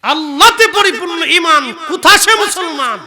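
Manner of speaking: high, very loud melodic declamation; impassioned verse recitation. Real, not acted. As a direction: proclaim the couplet at full preaching voice. Verse repeated at full force. (উঁচু গলায় সুর করে কবিতা আবৃত্তি)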